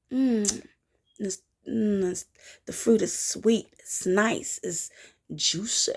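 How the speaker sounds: soft, savoring mm; lightly seductive tasting; sensual savoring. Acted. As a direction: relish the juicy fruit. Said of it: "why I said that like that".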